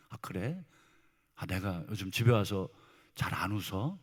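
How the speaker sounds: soft, low, thoughtful response; meek acceptance. Acted. Husband answering his wife's reproach, meek and hushed. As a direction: take the criticism quietly, voice dropped.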